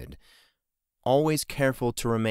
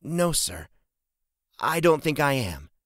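higher-pitched, mildly dejected reply; sad; 7 semitones higher than usual. A narrator's reading. Daughter answering her father's question, sad. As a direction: answer with understated sadness. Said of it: "she replied sadly".

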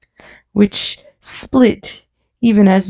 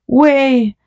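high, mildly raised call; crying out; 7 semitones higher than usual. A narrator's reading. Men around him clear a path, crying out. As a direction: call it out high, short of a shout. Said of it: "cried the men all about him".

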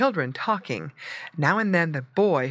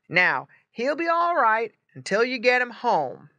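higher-pitched, lively reassurance; exclaiming farmer; 7 semitones higher, 4 dB louder than usual. A narrator's reading. Farmer to the boy taking pig home, exclaiming. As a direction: tell the buyer it is all settled. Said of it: "exclaimed the farmer".

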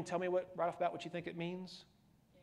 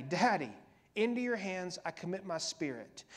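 crying out; 4 dB louder than usual. Acted. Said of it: "I'm yelling out to my Daddy".

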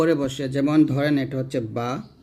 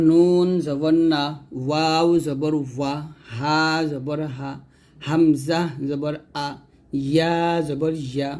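read-along drill. Shown as a demonstration. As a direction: draw out each letter name, then land the syllable. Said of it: "আমার সাথে আপনারা পড়বেন".

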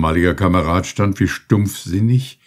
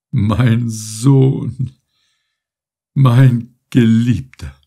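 joyful cry; 4 semitones higher, 5 dB louder, much slower than usual. A narrator's reading. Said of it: "Diese beiden Rufe ertönten".

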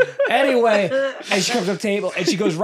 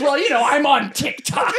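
high, slow mock boast; put-on voice showing off, amused; imitating the stranger; 6 semitones higher than usual. Ghost hunter bragging to diners, high mock imitation. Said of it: "And she goes".

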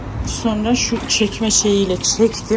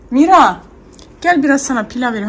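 calling out; 4 semitones higher, 4 dB louder than usual. Real, not acted. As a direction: call her over, loud and high. Calling the baby to eat. (bebeği yüksek sesle yemeğe çağırma)

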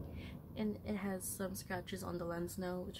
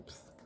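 imitated pfft; 15 dB quieter than usual. Shown as a demonstration. Imitates brush cleaning under sink.

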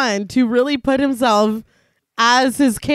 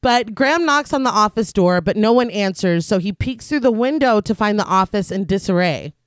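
scripted recap narration; 4 semitones lower than usual. A narrator's reading. Reads a scripted plot recap.

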